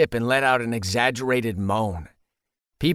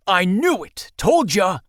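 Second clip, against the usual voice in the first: loud, high gloating shout; slapping the table, I told you so; triumphant; 8 semitones higher, 4 dB louder than usual. Acted. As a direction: crow it like you won the bet. Friend slams table, triumphant.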